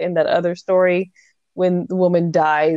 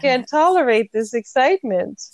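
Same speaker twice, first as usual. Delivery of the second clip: mock-delicate protest with a lifted pitch; fainty, delicate woman; 5 semitones higher than usual. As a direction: play a lightly hammed-up fainting lady. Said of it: "It seems fainty".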